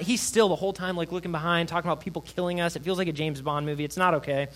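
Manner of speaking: normal talking voice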